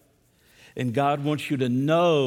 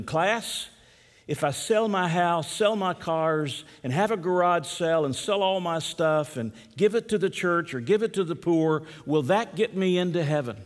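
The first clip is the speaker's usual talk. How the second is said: lightly voiced teacher, pitched higher; Sunday school teacher; 4 semitones higher than usual. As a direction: quiz the class, piling up each item in a raised voice. Voices teacher quizzing her class.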